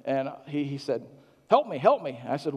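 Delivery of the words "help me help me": higher, louder plaintive plea; a hint of a frail patient; imitating a pleading patient. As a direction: call out like a helpless old man.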